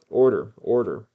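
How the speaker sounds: loud call for order. A narrator's reading. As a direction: raise the voice sharply over the arguing. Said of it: "raising his voice".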